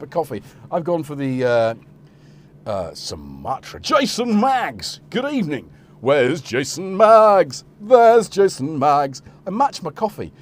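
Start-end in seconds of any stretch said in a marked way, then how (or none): 3.8-9.2 high, drawn-out singsong call. Real, not acted. Host greets and hunts for Jason Maggs, calling out. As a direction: call loudly, stretching out the name.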